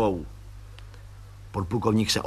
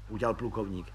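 usual speaking voice

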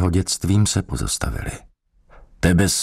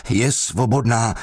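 shouted; 6 semitones higher than usual. Acted. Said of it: "křičel".

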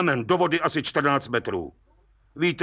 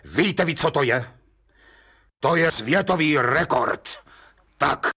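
mild agitated outburst; blurted out agitated. Acted. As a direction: let it burst out, a touch worked up. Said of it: "vyhrkl rozčileně".

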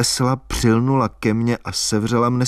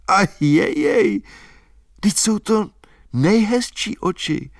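high, breathless, near-crying insistence; much higher, overwhelmed with feeling; excited girl; 10 semitones higher than usual. A narrator's reading. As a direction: plead with rising emotion. Albína excitedly defending green eyes.

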